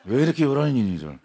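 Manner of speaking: stern teacher line breaking into laughter; laughing through the line. Retold or imitated. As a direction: try to stay stern but laugh. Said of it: "단호하게 말씀하셨어요".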